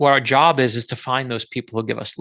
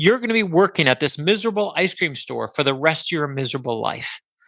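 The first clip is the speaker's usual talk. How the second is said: mock rude, insulting screaming tirade; 3 semitones higher than usual. Retelling a customer screaming in their face: imitating a customer screaming. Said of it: "she started screaming in my face".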